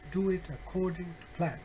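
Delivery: brisk, connected "Do it according to plan"; conversational rhythm on "Do it according to plan"; natural rhythm. Shown as a demonstration. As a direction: say "Do it according to plan" in one natural run, stress on "Do". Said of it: "try to make it more natural".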